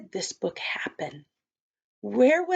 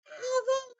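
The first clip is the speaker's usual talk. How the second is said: alarmed yell; 13 semitones higher, 6 dB quieter than usual. A narrator's reading. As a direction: stretch out a shrieked warning without full loudness. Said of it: "yelled Lucy".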